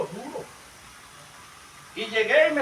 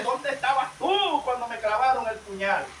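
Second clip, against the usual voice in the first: raised, drawn-out mock protest; high, loud, aggrieved questioning; indignant complaint to God; 5 semitones higher, 5 dB louder than usual. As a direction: act out a wronged believer challenging God. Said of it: "usted se pone bravo con Dios y dice".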